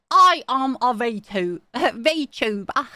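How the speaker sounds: lightly put-on proper British accent, slow and deliberate; mock proper British. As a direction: imitate a friend's careful British diction. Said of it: "she ripped out the proper British accent".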